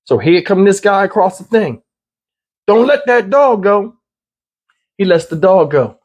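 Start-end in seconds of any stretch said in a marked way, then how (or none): 2.7-4.0 a mild mock order, slow and drawn out; half-hearted police order, slow; retold command. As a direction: call it out the way the trooper did, but only lightly. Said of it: "multiple times they said".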